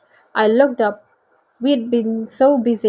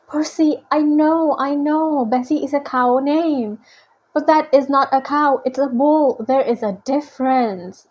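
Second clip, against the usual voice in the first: lightly voiced, pitched-up pleading explanation; mildly exasperated storybook sidekick; exasperated character protest; 2 semitones higher than usual. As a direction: insist on the point, a touch fussy. Acts Grover arguing about Bessie.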